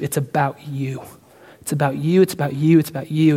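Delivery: mock false teacher. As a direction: mimic the false preachers' pitch. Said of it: "they make messages tailored to".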